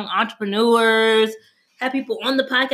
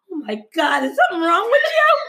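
mock alarm; 7 semitones higher than usual. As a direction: yelp it like something is wrong. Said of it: "I was like".

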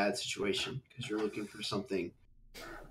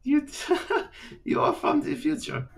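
high, laughing disbelief; incredulous laugh. Acted. Lord laughing at the girl's time-travel claim, incredulous. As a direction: scoff at the wild story.

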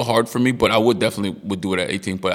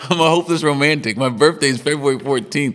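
higher, louder mock-defensive protest; laugh, then push back at the teasing in a raised pitch; playful protest; 5 semitones higher, 4 dB louder than usual. Real, not acted. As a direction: defend yourself loudly, in fun. Playfully defends himself against teasing.

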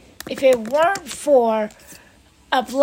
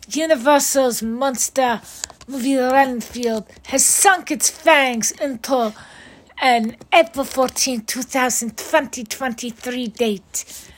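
bad vampire voice. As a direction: drag it out like a cheesy vampire. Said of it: "Now for a bad vampire voice".

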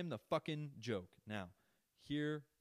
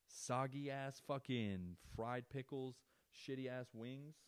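disgusted; 3 semitones higher, much slower than usual. Real, not acted. Trashing Hooters food.

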